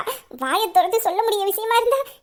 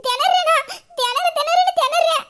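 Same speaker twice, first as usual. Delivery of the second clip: flustered laugh; 6 semitones higher than usual. Acted. Flustered, laughing at his teasing.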